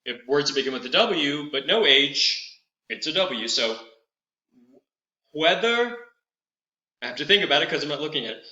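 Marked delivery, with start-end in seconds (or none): 5.3-6.0 whether said as hwether with a puff of H first; breathy hw onset. Shown as a demonstration. Teacher showing whether begins with an H sound. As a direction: start whether with an H breath before the W. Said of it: "the first sound you make is a H sound".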